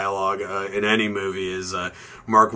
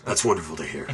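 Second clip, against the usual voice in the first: dry deadpan quote; 5 semitones lower, 5 dB quieter, faster than usual. Retold or imitated. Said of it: "Alec Baldwin goes".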